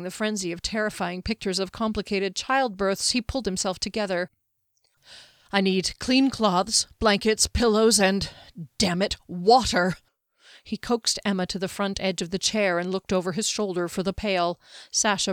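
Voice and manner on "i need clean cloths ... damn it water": louder, pressured list of demands; urgent healer taking charge; urgent orders. Acted. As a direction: call out supplies in an emergency. Healer barking orders during emergency birth.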